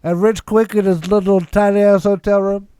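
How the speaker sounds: slow tipsy host sign-off; slightly drunk, drawn-out delivery. Pretend. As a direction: drawl through the roll call as if tipsy. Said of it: "favorite John Covey impression".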